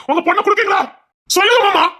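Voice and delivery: insistent demand. Acted. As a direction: push the uncle hard for a yes. Demanding an answer from his uncle.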